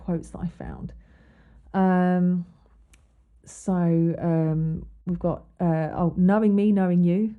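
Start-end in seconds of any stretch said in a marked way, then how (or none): 6.2-7.3 loud, hammed-up showman call; a light Alan Partridge bark, louder than her own talk; Alan Partridge catchphrase. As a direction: belt it out like a chat show host greeting. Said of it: "Um, a band or Alan Partridge".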